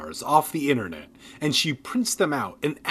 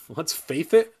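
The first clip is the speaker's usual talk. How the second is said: puzzled; 3 semitones higher, 3 dB louder than usual. Real, not acted.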